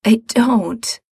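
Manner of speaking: put-on a sick boy's dry rasp. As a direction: scrape the words out, weak and ill. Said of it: "Mikey rasps".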